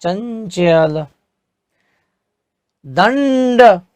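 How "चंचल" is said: चंचल drawn out slowly, each sound clear; slow model word. Shown as a demonstration. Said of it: "च के बाद ञ लगता है". (चंचल को धीमे, साफ़ उच्चारण में)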